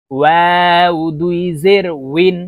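ওয়াও drawn out with rounded lips, a clear w sound; rounded-lip waw. Shown as a demonstration. Teacher showing learners waw, ওয়াও slow with rounded lips. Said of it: "চারটি হরফের উচ্চারণ চারভাবে হবে".

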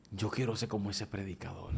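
soft, hushed, almost to himself; hushed inner longing. Retold or imitated. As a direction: murmur the wish softly, moved. Heart's longing, tearful memory.

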